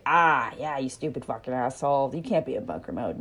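contemptuous, fast scolding; harsh scolding. Retold or imitated. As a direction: snap at them with contempt. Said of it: "would I be like".

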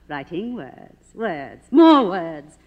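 slow disdain rising to a loud burst; mock him word by word; mounting scorn. Silent star scorning a writer, building to a shout.

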